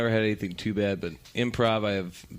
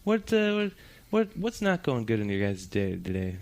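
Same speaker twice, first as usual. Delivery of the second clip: much higher, chirpy host voice; upbeat improv host; 9 semitones higher than usual. Retold or imitated. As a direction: play the overly cheerful improv emcee. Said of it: "the guy's like".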